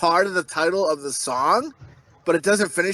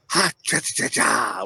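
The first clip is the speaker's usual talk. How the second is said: cartoon chant; 9 semitones lower than usual. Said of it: "and he went".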